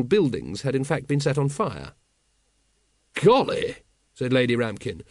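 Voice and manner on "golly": awed gasp. A narrator's reading. Lady Ramkin awed by dragon.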